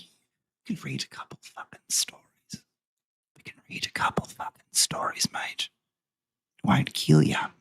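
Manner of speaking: put-on Australian accent, partly whispered. Vlogger talking themself into reading stories, Australian Mr G accent. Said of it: "in that accent is because of this coffee mug".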